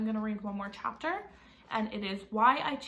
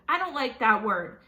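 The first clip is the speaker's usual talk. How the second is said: a loud sharp read-aloud yell; 8 dB louder than usual. Acted. Mom yelling at Jamie for a mean word. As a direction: cut him off with a loud "Hey". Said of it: "Mom yelled".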